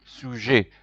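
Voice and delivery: Le sujet drawn out slowly, luh soo-zhay; slow model word. Shown as a demonstration. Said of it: "Repeat after me".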